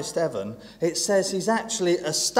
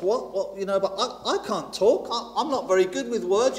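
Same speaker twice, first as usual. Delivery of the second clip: hesitant Moses; 4 semitones higher than usual. Retold or imitated. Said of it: "struggling to get my words out".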